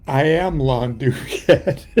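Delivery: said through a laugh. Retold or imitated. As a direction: announce your name while laughing. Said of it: "and I go".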